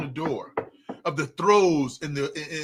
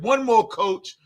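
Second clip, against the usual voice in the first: imitating a player begging, loud and high; pleading player; 5 semitones higher, 7 dB louder, slower than usual. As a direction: beg the coach for one more. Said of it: "Joe Burrow said".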